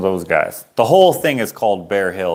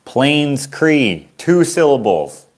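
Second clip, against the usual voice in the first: put-on pitched-up childish delight; mock delight; 3 semitones higher, much slower than usual. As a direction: act thrilled at the two syllables like a kid. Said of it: "I was like".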